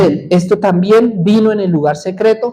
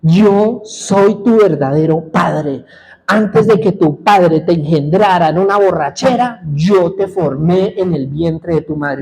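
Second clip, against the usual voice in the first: grave voice. Retold or imitated. God answering the son a third time, in a grave voice. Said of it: "era grave, o sea, alto".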